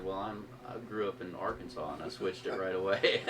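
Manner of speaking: words breaking into a chuckle; laughing while talking. Real, not acted. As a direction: let the laugh leak through the line. Retelling funny audition story.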